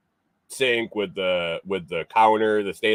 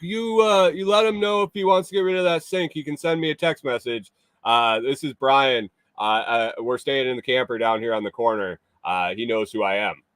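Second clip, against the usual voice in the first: quoting himself; 3 semitones higher than usual. Retold or imitated. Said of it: "I was like".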